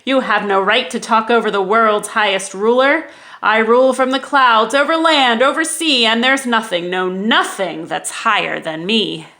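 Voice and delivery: loud, arrogant royal rant; ranting king. Acted. Yertle ranting down at Mac, loud and arrogant. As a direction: tower over Mac with every word.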